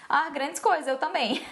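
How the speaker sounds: lightly mocking, unimpressed comeback; dismissive sarcasm. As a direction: shrug off the classmate's boast. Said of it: "eu falava assim na escola". (desdém leve, imitado)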